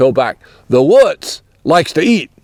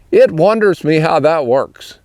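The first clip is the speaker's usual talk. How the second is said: Pennsylvania Dutch phrasing of "It wonders me". Shown as a demonstration. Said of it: "you might say".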